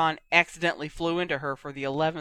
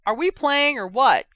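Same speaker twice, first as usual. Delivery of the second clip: loud, high call; calling from across; 8 semitones higher, 8 dB louder than usual. A narrator's reading. Impatient teammate calling players to start, shouted from afar. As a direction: holler it across the pitch. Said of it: "a voice from across the pitch".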